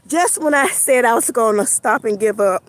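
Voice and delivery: breathless from walking; out of breath. Real, not acted. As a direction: push words out short of air. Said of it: "I'm out of breath".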